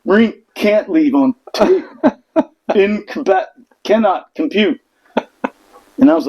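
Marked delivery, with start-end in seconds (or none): 0.0-4.8 slow, robotic glitching voice; mock robot. Marines mocking themselves over the tray rule, slow robot voice. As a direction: stall like a malfunctioning machine. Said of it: "We're like".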